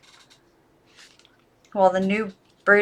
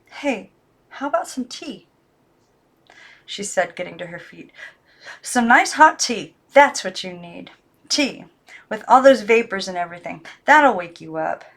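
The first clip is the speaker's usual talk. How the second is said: put-on coaxing girl voice; 3 dB louder than usual. Girl offers tea to the dolls, coaxing. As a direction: tempt them with tea brightly.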